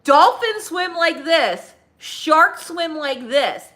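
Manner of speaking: high, loud, slow southern drawl; teaching about dolphins and sharks in a southern accent; southern kid explaining. Retold or imitated. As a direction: spell it out slowly like the southern boy. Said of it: "He goes".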